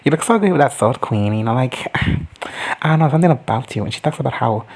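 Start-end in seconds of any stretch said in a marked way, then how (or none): 0.0-1.3 flirt with a light sing-song; flirty quote. Retold or imitated. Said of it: "she's like".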